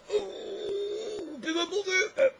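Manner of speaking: very high, whimpering mock voice; whiny mock crybaby. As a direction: mimic a sniveling complainer. Imita o poeta ateu chorão. (voz chorosa e aguda de deboche)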